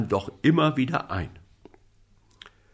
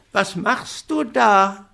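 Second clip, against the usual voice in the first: calling up; 8 semitones higher, slower than usual. Acted. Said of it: "rief der kleine Häwelmann hinauf".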